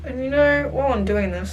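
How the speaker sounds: talking through clenched teeth; words squeezed through closed teeth; through gritted teeth. Real, not acted. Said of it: "speaking through my teeth".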